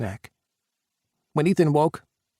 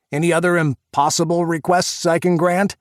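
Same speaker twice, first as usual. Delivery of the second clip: sarcastic; 7 semitones higher, 8 dB louder than usual. A narrator's reading. Sarcastic friend's jab.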